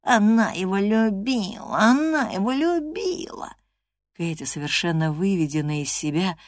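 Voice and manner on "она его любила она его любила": higher mocking chant, rising at the end; teasing singsong. Linton teasing Catherine again, higher mocking singsong. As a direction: tease her again in singsong. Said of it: "вновь принялся дразнить Кэтрин, повторяя".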